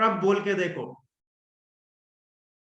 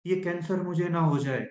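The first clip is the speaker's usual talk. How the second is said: put-on old fearful tone; 2 semitones lower than usual. Shown as a demonstration. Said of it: "पहले मेरा था कि".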